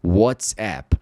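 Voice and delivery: WhatsApp said wotsep with an o vowel; English-style WhatsApp. Shown as a demonstration. Teacher showing English pronunciation of WhatsApp. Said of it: "essa pessoa tá ligada do som do A".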